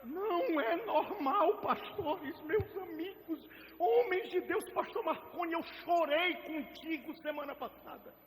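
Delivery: real emotion, choked; tearful plea. Real, not acted. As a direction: plead to the pastors through tears. Preacher moved, addressing fellow pastors.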